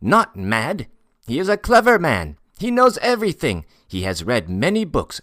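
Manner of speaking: loud, high, eager character voice; emphatic Tatar porter. Acted. Tatar boasting of a clever fortune-teller, emphatic and excited. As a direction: sing the man's praises with mounting zest. Tatar extols Murin to Ordinov.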